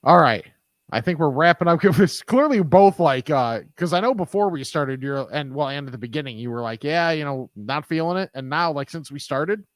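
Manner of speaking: stuffy, congested nose; blocked nose. Real, not acted. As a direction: talk through a blocked nose. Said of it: "I can't breathe through my nose right now".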